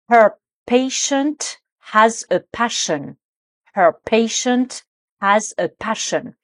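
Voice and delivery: slow model sentence, PATIENT against PASSION; prononciation précise. Shown as a demonstration. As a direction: say PATIENT and PASSION slowly, word by word. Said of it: "il faut bien être précis, précise sur la prononciation". (lente diction soignée de « patient » et « passion »)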